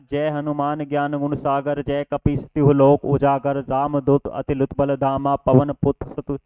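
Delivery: slow, measured chaupai reading; steady, drawn-out recital of devotional verse; verse recitation. Shown as a demonstration. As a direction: recite the verse syllable by syllable, evenly paced.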